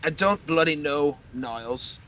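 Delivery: loud hammed-up Russian accent, fading at the end. GM voices the skull in a joking Russian accent. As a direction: bark it in a mock Russian accent. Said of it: "I'm doing a Russian accent now".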